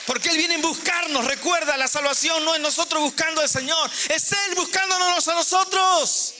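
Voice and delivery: high-pitched preaching, held to a peak; fervent preaching. Real, not acted. Preacher proclaiming that God seeks us, high fervent preaching.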